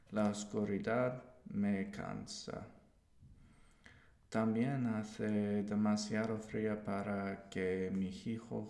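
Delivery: careful, halting Spanish reading of a text; reading aloud in Spanish. Shown as a demonstration. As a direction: read the Spanish text steadily, word by word. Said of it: "I'm gonna read through the text".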